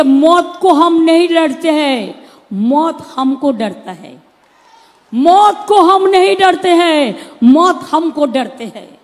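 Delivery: slow, declaimed Urdu couplet; shayari recitation. Shown as a demonstration. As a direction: recite the verse slowly, with weight. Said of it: "লিখেছিলাম একটা শায়েরিতে". (ধীরে আবৃত্তি করা শায়েরি)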